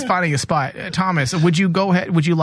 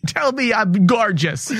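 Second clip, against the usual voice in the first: vain plea; 5 semitones higher, slower than usual. Pretend. Slow vain mock plea.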